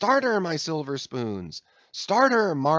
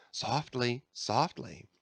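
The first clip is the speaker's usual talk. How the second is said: softly; 6 dB quieter, slower than usual. A narrator's reading. Stubb easing the stroke.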